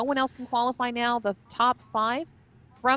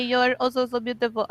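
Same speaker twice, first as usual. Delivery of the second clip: put-on German accent; 4 semitones higher, 6 dB louder than usual. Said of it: "I don't know how to do a German accent".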